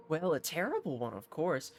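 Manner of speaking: a lightly voiced haughty captain; hint of a pompous nobleman. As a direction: play a self-important mercenary captain, lightly. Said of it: "what he sounds like".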